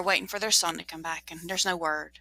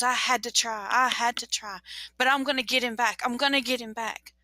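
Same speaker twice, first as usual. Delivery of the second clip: insistent wife; 4 semitones higher than usual. Acted. Wife insists to angry husband.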